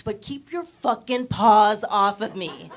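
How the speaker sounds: ordinary delivery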